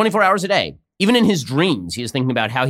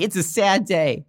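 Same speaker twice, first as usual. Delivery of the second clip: higher, slowed sing-song fake sadness; mock Pelosi sadness; 4 semitones higher than usual. Host imitating Pelosi pretending to be sad about impeachment, sarcastic mock whine. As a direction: ham up a fake-sad politician hiding a smile. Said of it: "She's like".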